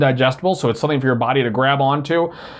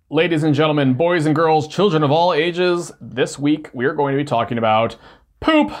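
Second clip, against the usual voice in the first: ringmaster. Pretend. Announcing poop topic like a ringmaster.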